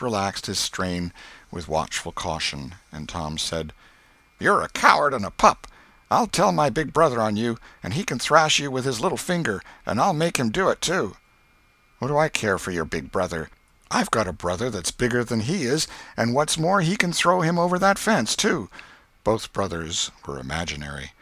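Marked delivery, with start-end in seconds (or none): 4.4-11.2 loud, higher schoolboy bragging; boastful boy threat. Acted. Tom threatens the new boy. 12.0-18.7 climbing higher as he boasts; boy bragging back. Acted. New boy brags back.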